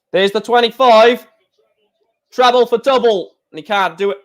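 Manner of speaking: hiccuping between words; talking through hiccups. Real, not acted. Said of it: "I'm hiccuping so often".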